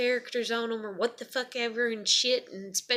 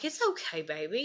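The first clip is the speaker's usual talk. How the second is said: soothing mother; 2 semitones lower than usual. Retold or imitated. Mother to crying daughter through bathroom door, soothing. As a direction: gently coo it, retold comfort.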